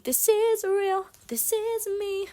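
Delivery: high, slow, hammed-up anguish; mocking Christian's tortured declaration; mock dramatic. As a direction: overact his tortured confession.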